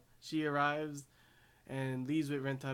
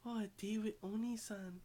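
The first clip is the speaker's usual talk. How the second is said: put-on dreamy little girl; 8 semitones higher than usual. Tina delighted to go on a date with Oni-san, high dreamy girl voice. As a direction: sigh it out like a girl thrilled about a date.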